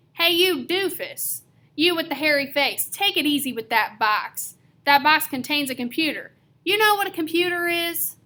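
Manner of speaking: high, loud bossy shouting; a small kid barking orders up at big movers; kid yelling at movers. Acted. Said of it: "yelling up at the movers".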